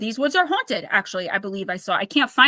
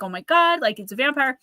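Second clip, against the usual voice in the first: panicked retelling; 4 semitones higher than usual. Retold or imitated. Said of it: "they're, like, panicking".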